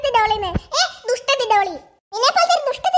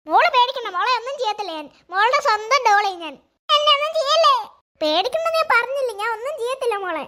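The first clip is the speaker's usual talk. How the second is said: a talking doll speaking gently; magic doll voice; 3 semitones lower than usual. Acted. Doll voice continues.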